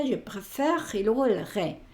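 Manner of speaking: "je préfère" ending on the r, then "re" added separately; silent e. Shown as a demonstration. Teacher showing the unaccented E is not pronounced, split-syllable demo. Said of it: "no se pronuncia".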